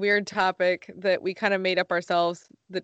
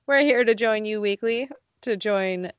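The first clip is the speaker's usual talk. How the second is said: voice cracking. Real, not acted. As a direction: voice cracks mid-phrase. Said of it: "my voice cracked and it threw me off".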